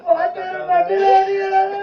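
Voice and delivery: whiny complaint. Acted. Child complaining about teacher.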